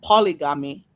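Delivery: polygamy in a Haitian accent; lightly Haitian-accented pronunciation. Shown as a demonstration. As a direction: say it with a Haitian lilt. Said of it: "in the Haitian accent".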